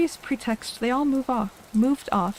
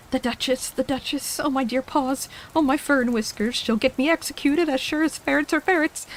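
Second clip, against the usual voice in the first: rabbit muttering; 4 semitones higher than usual. Acted. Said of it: "muttering to itself".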